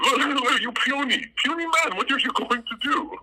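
high mocking taunt. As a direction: sneer it like a cocky heel. Taunting a rival in comedy bit.

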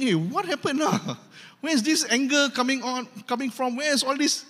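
puzzled, half-laughing; baffled husband. Retold or imitated. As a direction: play the husband who just came home and got blasted. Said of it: "So he's thinking".

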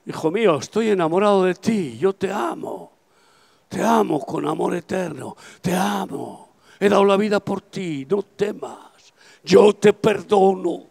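lightly voiced, gentle God speaking inside his soul. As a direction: speak as a loving father forgiving his son. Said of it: "oí la voz de Dios casi dentro de mi alma diciendo".

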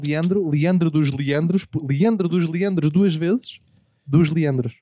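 drawn out slowly, name by name; slow name savouring. Shown as a demonstration. Naming a character for the book, said slowly with relish. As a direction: roll the grand title out slowly. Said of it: "savouring the name".

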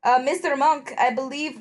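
character voice slipping into southern; put-on southern accent. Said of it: "I can only do a s-, a southern accent".

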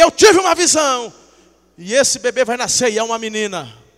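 loud, high declaration, easing at the end; bold proclamation. Retold or imitated. Telling a pregnant sister about a vision, bold proclamation. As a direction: proclaim it like a prophecy.

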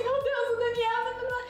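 high, laughing, giddy repeated cries; starstruck squeal. Retold or imitated. Fan spotting the band drummer on the beach, squealing. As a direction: gush like a fan who just spotted her idol. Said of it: "e eu assim".

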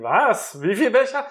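high, loud, laughing mock official; tax officer. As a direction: play a baffled tax inspector, laughing. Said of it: "dann sagen die".

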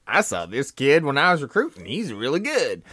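a lightly put-on coach voice; mock Pete Carroll voice. Mimicking the coach to a co-host in a lightly altered voice. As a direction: toss off the boast in a quick lightly altered voice. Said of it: "he has that accent".

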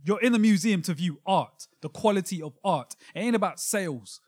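heated, pressing the point hard; worked-up, angry insistence. Real, not acted. Podcaster arguing museums are about art, angrily insistent. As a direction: argue it with mild real annoyance. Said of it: "why you so angry for".

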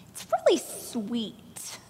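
whispered, slow; soft mock whisper. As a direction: hush it like a backhanded compliment.

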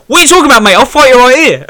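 loud, high-pitched imitation of an outraged fighter; mock angry challenge. Beaten opponent squaring up in the ring, mock angry challenge. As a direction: shout it like a ludicrous threat.

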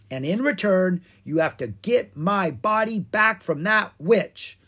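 lightly voiced king, high and loud; demanding Pumpkin King. Pumpkin King names his price to the dragons, insistently. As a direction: lay down royal terms.

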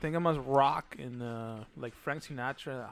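slow gringo Spanish; imitating an American speaking Spanish; American accent Spanish. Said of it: "hablaba bien raro de".

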